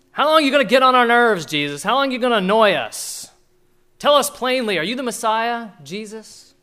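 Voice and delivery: loud, fast, impatient pressing challenge; exasperated demand. Acted. Religious leaders cornering Jesus, loud exasperated demand. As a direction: push him like a fed-up crowd.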